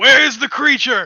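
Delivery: very loud, high, in-character yell. Speaking in character as a soldier in a game scene: shouting in character. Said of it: "I shout I shout".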